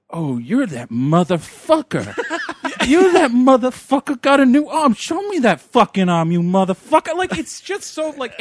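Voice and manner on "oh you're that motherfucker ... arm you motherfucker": loud, taunting bar heckler; mild mock yell at the guy with the arm; mock antagonizing barfly. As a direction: heckle him like a rowdy drunk. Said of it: "It's like".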